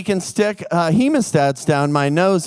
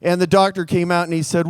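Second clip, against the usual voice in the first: ordinary delivery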